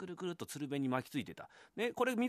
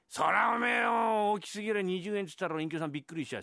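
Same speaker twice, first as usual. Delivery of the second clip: startled outcry; 7 semitones higher, 6 dB louder than usual. Acted. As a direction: bellow in alarm at the sum. Husband balks at twenty yen.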